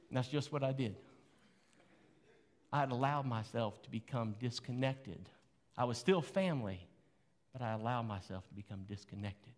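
ordinary talk, nothing marked

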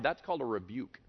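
ordinary delivery

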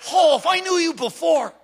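mock menace flaring up; restrained threat bursting out. Gangbanger to the new kid, flaring anger.

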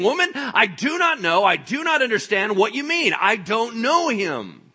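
high, loud, adamant denial; emphatic denial. Acted. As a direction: shut her down forcefully, dragging out the last words. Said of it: "he was trying to shut her down".

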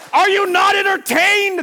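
hammed-up rhetorical bellow; mock showman challenge. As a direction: throw it out to a whole arena. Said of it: "I, I feel like".

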